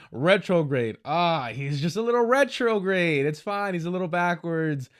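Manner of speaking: laughing sarcastic dismissal; laughing mock echo. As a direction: sneer the word back laughing. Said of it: "retrograde things he said".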